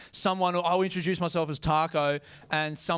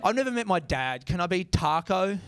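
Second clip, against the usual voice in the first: annoyed retort; 3 semitones higher than usual. Retold or imitated. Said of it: "it makes me angry".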